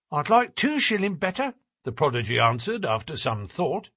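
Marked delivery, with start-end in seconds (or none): 0.1-1.5 put-on high-pitched young lad bargaining; small boy. A narrator's reading. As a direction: answer as a cheeky little child. Narrator voices the same boy.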